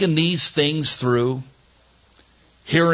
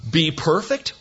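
higher, rising "Be perfect?" in disbelief; incredulous question; 3 semitones higher than usual. Acted. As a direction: ask "Be perfect?" as if it can't be serious. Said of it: "laughs, then questions the phrase".

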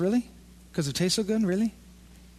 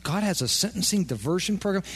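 mock surprise; 3 dB quieter than usual. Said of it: "You say".

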